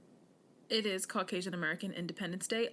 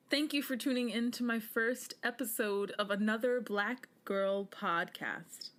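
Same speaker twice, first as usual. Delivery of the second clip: drawn-out sign-off; 2 semitones higher than usual. Real, not acted. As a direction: stretch out the show name like a radio host. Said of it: "I don't know why I just said it like that".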